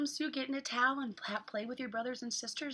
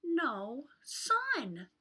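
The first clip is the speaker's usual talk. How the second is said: hot; much slower than usual. Acted. Reads picture book to children.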